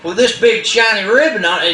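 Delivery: high, hushed protesting voice; alarmed Possum. Acted. Possum protesting to Cricket, high and alarmed. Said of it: "and he says".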